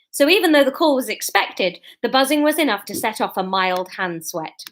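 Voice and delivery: animated, projected reading aloud; story narration. A narrator's reading. Writer reading her new chapter to viewers, story narration. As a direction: read the chapter out to listeners.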